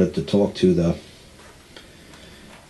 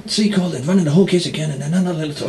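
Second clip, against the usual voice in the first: whiny complaint; 9 semitones higher, faster than usual. Retold or imitated. Clients whining to their lawyer.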